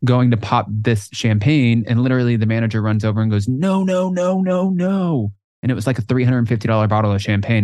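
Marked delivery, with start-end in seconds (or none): 3.5-5.3 high, drawn-out string of refusals; urgent objection. Retold or imitated. Manager stopping a guest opening champagne, urgent. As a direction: imitate someone rushing in to stop it. Manager rushes over to stop him.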